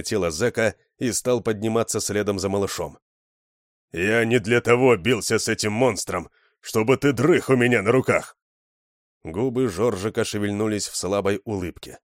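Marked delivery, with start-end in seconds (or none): 3.9-8.4 loud, higher, exasperated scolding; gruff complaint while carrying him; annoyed scolding. Acted. Fat man scolding his limp friend, loud and exasperated.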